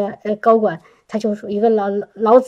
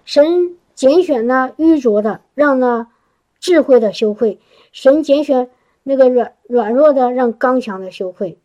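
measured preacher reciting scripture; scripture recitation. Real, not acted. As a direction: recite the verse with weight. Quoting scripture in testimony.

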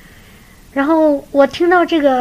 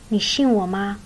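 a hint of a tender Jesus, softer and lower; kindly, gracious; 3 semitones lower, 4 dB quieter than usual. Jesus gently asks the driving husband, lightly voiced and tender. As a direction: gently ask like a loving Lord. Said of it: "非常，非常慈祥的".

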